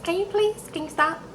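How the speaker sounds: exasperated plea. Retold or imitated. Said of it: "And she's like".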